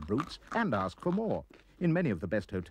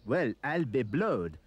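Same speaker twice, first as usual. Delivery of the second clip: mock French scream. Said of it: "They screamed in French".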